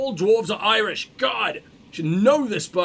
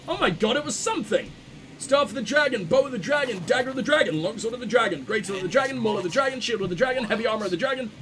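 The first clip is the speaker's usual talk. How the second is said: excited; 3 semitones higher, faster than usual. Real, not acted. Excited finding dragon gear set.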